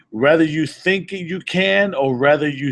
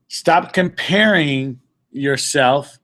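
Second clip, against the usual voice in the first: slow emphatic; 2 semitones lower, much slower than usual. Shown as a demonstration. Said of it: "Let me say it again".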